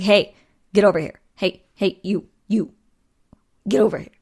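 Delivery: half-hearted yell calling the dogs; mock yelling. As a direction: imitate hollering at your dogs, only mildly. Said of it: "yelling at 'em".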